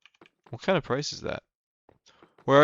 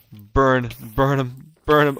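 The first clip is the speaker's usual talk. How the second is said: louder, urging them on; excited egging on; 3 semitones higher, 6 dB louder, much slower than usual. Real, not acted. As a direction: cheer the fire on, building. Cheering on a burning crowd.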